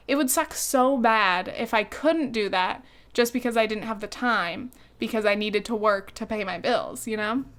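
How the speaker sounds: talking while choking on dust. Real, not acted. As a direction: dust caught in the throat. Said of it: "I'm choking on dust again".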